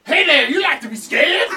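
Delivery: put-on slow, high leering old man; creepy old man voice. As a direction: drool it out like a dirty old man. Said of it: "creepy old man voice".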